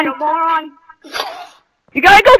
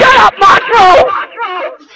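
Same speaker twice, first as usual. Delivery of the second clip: drawn-out shout; 3 semitones higher, much slower than usual. Real, not acted. Shouted at another player.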